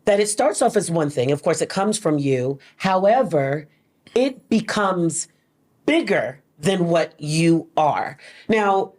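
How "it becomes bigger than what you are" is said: slow, deliberate, weighted "bigger"; "bigger" set apart after a pause and stressed; emphasis on BIGGER. Real, not acted. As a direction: lean hard on "bigger", spacing out the phrase. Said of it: "I put emphasis on the word bigger".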